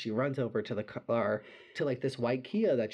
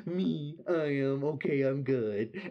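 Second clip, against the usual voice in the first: laughing; 3 semitones higher than usual. Retold or imitated. Friend answering, laughing through tears.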